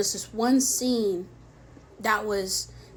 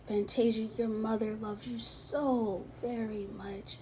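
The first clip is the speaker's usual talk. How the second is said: gentle and loving; 5 dB quieter than usual. Retold or imitated. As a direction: say it tenderly, like comforting a child. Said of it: "he said it so lovely and so gentle".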